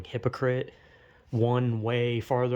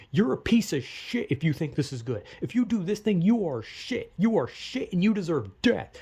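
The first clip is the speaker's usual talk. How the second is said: mock hateful rant; 5 semitones higher than usual. Vlogger mimicking online haters in a mock angry rant. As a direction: sneer it like a raging troll.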